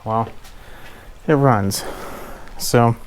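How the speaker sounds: winded, catching breath between words. Real, not acted. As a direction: talk out of breath after exertion. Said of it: "Sorry, I'm out of breath".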